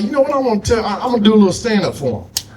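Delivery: self-quote. Retold or imitated. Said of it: "I was like".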